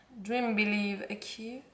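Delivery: English read with a real French accent. Real, not acted. Vlogger reading a planner quote aloud, French accent. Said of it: "un problème avec mon accent anglais".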